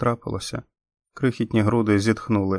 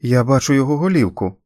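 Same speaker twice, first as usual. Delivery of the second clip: excited call, a little higher and louder; 4 semitones higher, 6 dB louder than usual. A narrator's reading. Lyla calls out seeing the baby's head, excited call. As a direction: cry out what she sees. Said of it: "гукнула Лайла".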